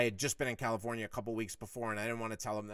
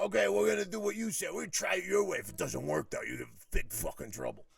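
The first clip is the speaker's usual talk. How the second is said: higher-pitched, grudging imitation of the boss; put-on high voice conceding the argument; boss backing down; 7 semitones higher than usual. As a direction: imitate a boss reluctantly giving in. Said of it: "I got him to back down".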